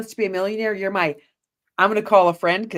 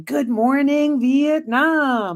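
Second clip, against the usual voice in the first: Good Morning Vietnam call; 4 semitones higher, much slower than usual. Retold or imitated. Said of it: "I said to him".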